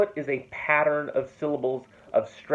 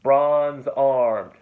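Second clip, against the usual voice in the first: "Bronze-armed" with both syllables equally heavy and long; two long even beats; spondee demo; 4 dB louder than usual. Shown as a demonstration. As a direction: press down on "Bronze" and "armed" alike. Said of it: "Two long syllable".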